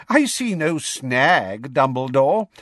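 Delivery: vibrating with joy. A narrator's reading. Minister certain of his arrest, joyfully. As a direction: stretch it out, still elated. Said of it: "his voice still vibrating with joy".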